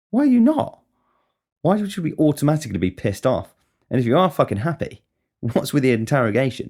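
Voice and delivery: high-pitched mock-indignant comeback; indignant retort. Answering those who question happiness, high indignant challenge. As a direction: fire the question back, voice leaping up.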